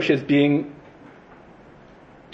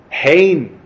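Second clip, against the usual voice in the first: "Hein" punched out, a bit louder and falling; emphatic hein; 3 semitones higher, 5 dB louder than usual. Shown as a demonstration. Teacher stressing God's word to Moshe, "Hein" hit firmly. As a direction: lean hard on "Hein" as a word of certainty. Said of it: "that's a really emphasizing word".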